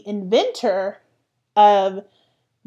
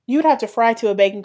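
sassy exclamation; 4 dB louder than usual. Real, not acted. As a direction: call them out with sass. Sassy retort to the classmates.

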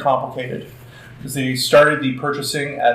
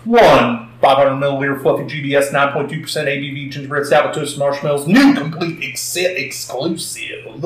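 auctioneer voice. Pretend. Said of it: "I'm trying to do my best, uh, auctioneer voice".

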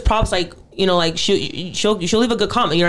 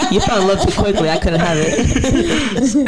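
laughing; slower than usual. Real, not acted. Teasing friend, laughing.

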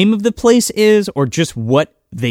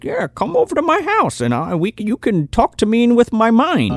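creepy mentor voice; 5 semitones higher than usual. Retold or imitated. Xavier voiced luring kids.

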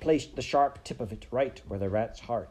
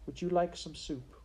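gentle offer; 9 semitones higher than usual. Acted. Princess makes peace with her enemy, gentle offer. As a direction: offer it tenderly, pitch lifted.

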